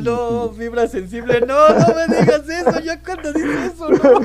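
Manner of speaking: loud, high, laughing protest; mock alarmed protest. Host begging guest not to touch sensitive fibres, loud mock-alarmed protest. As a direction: protest loudly, pitch climbing into laughter.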